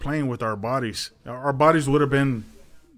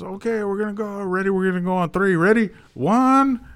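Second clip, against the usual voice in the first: retold countdown; 7 semitones higher than usual. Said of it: "And he says".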